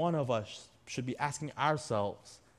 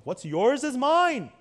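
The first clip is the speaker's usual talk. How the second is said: high, slow thief's claim; greedy thief; 9 semitones higher, 6 dB louder than usual. Retold or imitated. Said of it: "That's the thief".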